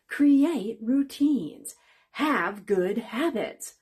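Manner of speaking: slow, drawn-out sarcastic listing; mock the advice, dragging it out. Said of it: "Notice the sarcasm in my voice".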